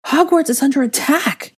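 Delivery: high loud urgent warning; ringing alarm call. Acted. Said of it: "a voice rang out around them".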